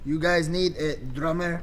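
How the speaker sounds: put-on slow French-accented question. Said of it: "in his ridiculous French accent".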